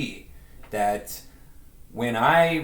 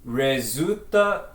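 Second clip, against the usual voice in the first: slow careful Spanish; slower than usual. Shown as a demonstration. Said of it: "I'll make an attempt".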